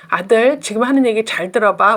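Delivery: demonstrating a firm, controlled instruction; firm mother. Shown as a demonstration. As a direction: get the child's attention without anger. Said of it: "그때 엄마가 단호하게". (단호한 엄마 말투)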